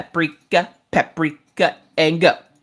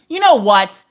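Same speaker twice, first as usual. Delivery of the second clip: fed up; 3 semitones higher, 6 dB louder, slower than usual. Acted. Fed up with Echo.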